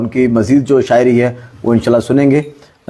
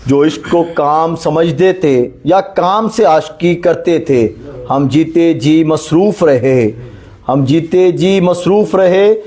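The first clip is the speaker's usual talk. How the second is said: poem recitation; 3 semitones higher, slower than usual. Acted. Host recites Faiz poem.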